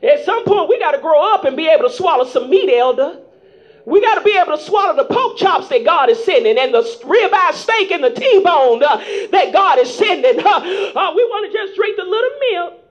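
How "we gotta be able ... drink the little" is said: chanted, fast, rhythmic preaching with music; preaching at full force. Acted. Preacher urging the congregation to grow up, whooping. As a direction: whoop it over the organ.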